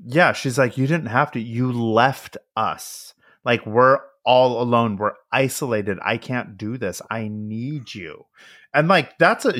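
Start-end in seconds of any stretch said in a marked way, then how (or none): 0.8-8.3 retold plea, slowing and softening at the end; pleading. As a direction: mildly imitate a wife begging. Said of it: "she's, like, essentially pleading".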